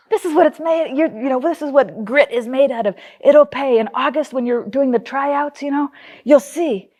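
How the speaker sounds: a hint of earnest coaching; lecturing dad. Dad lecturing daughter about tryouts, lightly mimicked pep talk.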